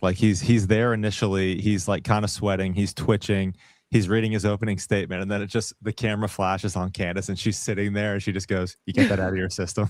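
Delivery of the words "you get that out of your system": mock unimpressed, indifferent, bored, offhand tone. Retelling how Candace reacted to his opening statement: imitating Candace sounding bored. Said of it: "She's bored".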